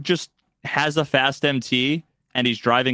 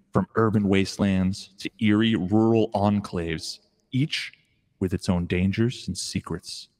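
horror trailer voice; 3 semitones lower than usual. Pretend. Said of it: "stock trailer voiceover".

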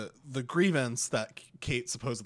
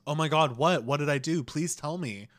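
higher, louder simpering plea; mock fake innocence; 4 semitones higher, 7 dB louder than usual. Mocking Megan's innocent reply to Kate, simpering. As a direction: plead innocence with exaggerated sweetness. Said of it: "Megan supposedly then goes".

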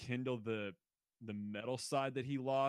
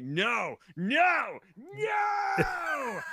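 much higher, louder mock-crying shout; whiny musician outburst; 5 dB louder, much slower than usual. A musician protesting a band's comeback, hammed-up wailing shout. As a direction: wail it like a toddler losing a toy. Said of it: "a musician was like".

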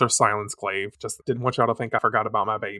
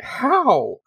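tearful cry; 11 semitones higher, 4 dB louder than usual. Acted. Minako sobbing in tears.

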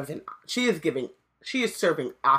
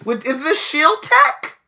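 excited suspicion; 5 semitones higher, 8 dB louder than usual. Retold or imitated. Umbridge grilling Hermione about the weapon, loud and excited. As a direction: pounce on the secret eagerly. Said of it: "She was like".

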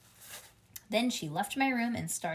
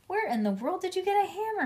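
high, fast outraged question; yelling father; 11 semitones higher, 4 dB louder, faster than usual. A narrator's reading. Father runs in on the hammering, yelling. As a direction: yell it in alarmed disbelief. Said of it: "he yelled".

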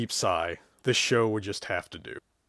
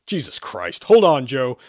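snarling; 6 dB louder than usual. Acted. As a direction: snarl a warning and floor it. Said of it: "he snarled".

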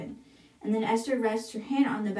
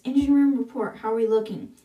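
calling out; 6 dB louder than usual. Acted. Captain calls the engine room.

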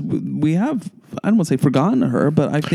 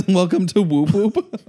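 laughing; 4 semitones higher, much slower than usual. Retold or imitated. Repeating song title laughing.

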